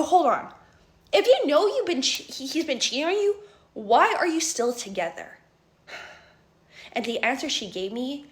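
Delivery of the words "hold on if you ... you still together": higher, louder, shocked question; stunned, demanding why, higher and louder; shocked disbelief. Retold or imitated. Asking her friend why she stays, higher and louder.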